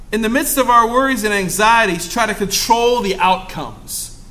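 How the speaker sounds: ordinary talk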